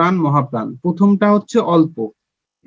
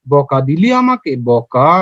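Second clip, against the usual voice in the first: slow, lower-pitched tender complaint; soft, loving voice; 5 semitones lower, slower than usual. Shown as a demonstration. Teacher mimics being scolded, soft loving voice. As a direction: draw it out like a sweetly hurt lover. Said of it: "নরম ভালোবাসার কণ্ঠ শোনায়".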